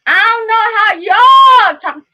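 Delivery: exasperated outburst. Real, not acted. Venting at a rude commenter.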